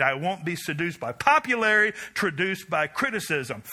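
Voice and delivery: building manifesto, preached with rising force; preaching recital. Acted. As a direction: proclaim it like a credo from the pulpit.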